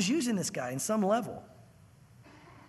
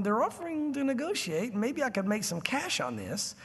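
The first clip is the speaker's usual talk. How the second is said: Balaam's scheming thought; 4 dB quieter than usual. Retold or imitated. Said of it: "Balaam's thinking".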